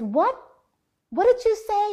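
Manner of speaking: high, loud startled question; mother shocked by her son's words, high and startled. Retold or imitated. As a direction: catch yourself in disbelief.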